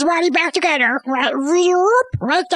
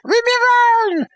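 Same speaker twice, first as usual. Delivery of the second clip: upset outburst; 6 semitones higher than usual. Retold or imitated. Doctor Manhattan tells the interviewers off, raised and upset. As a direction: push them away with a raised voice.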